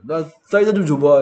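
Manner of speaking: put-on lisping kid asking; s turned to th. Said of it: "이렇게 하는 애들 있다니까". (혀 짧은 소리)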